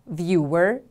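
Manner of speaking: "Viewer" stressed on VIEW; stress on first syllable. Shown as a demonstration. Teacher has class repeat after her, "Viewer" stressed on VIEW. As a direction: model "Viewer" with the weight on VIEW. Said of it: "The stress is on the first syllable".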